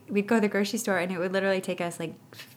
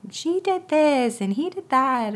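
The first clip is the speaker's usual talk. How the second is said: higher, slow mock tattle; tattling kids; 9 semitones higher, 6 dB louder than usual. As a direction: whine it like a child telling on a sibling. Siblings tattling on each other.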